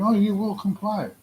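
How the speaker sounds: a put-on bossy wife telling him to obey; mimicking wife. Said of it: "My wife's saying".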